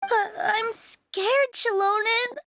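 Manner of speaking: trembling, close to crying; scared, near tears. Acted. Lost girl telling Shilonen she is scared, near tears. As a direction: voice catching as fear takes over.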